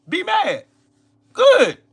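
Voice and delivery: high gleeful taunt. Real, not acted. Streamer gloating at angry viewers, high and gleeful.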